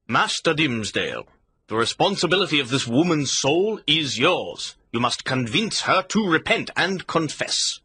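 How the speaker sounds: a touch of command in the governor's voice; lightly voiced, firm official order; authoritative. Governor charges Dimmesdale with her soul, lightly authoritative. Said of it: "spoke in an authoritative voice".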